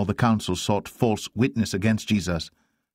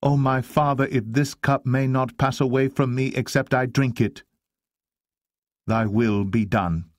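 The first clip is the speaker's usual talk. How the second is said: higher, pleading prayer to a father; earnest prayer; 6 semitones higher than usual. Acted. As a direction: pray it aloud, voice lifted. Jesus prays to his Father.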